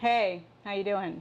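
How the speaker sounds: level, flat, toneless monotone delivery. Showing how tone can change a simple greeting, saying it in a monotone. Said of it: "[MONOTONE VOICE]".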